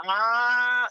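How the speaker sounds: long, high drawn-out vowel; slow-motion sloth. Retold or imitated. Imitating the Zootopia sloth for Leroy's slowness, slow-motion drawl. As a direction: stretch it out like a sluggish sloth. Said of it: "where that fucking sloth's like".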